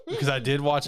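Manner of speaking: laughing through the words; giggling nervously while talking. Real, not acted. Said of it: "it's a nervous laugh".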